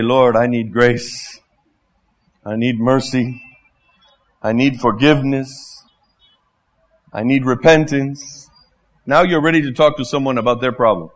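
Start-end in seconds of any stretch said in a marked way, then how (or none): 0.0-8.5 humble prayer. Retold or imitated.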